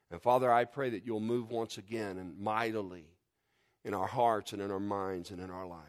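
pastor's closing prayer to God. Real, not acted.

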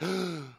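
sharp mock gasp of shock; imitated gasp. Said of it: "the church did a gasp".

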